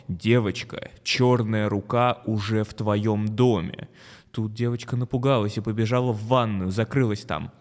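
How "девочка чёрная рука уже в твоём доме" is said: loud scary voice. Acted. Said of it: "голос говорит снова".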